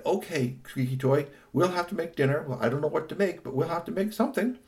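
lightly voiced mum, lilting upward; lightly voiced mother. Mother to robot helper about making dinner, lightly voiced.

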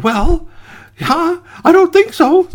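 high, squeaky defiance; cheeky gingerbread boy. Acted. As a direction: pipe a saucy refusal. Cookie refuses to be eaten.

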